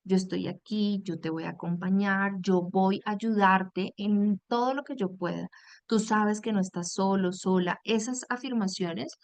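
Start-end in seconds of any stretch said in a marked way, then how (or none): 0.1-7.8 kind and reassuring. Shown as a demonstration. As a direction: offer company, not orders. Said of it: "algo más lindo para decir sería".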